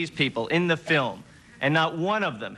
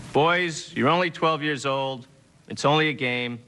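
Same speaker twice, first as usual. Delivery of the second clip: father's pep talk; 3 semitones lower than usual. Retold or imitated. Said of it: "getting a pep talk from your father like this".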